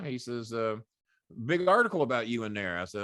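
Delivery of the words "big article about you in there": lightly imitated Southern general, a bit louder; a hint of a Southern general father; Southern general, only half put on. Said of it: "he talked like a Southern general".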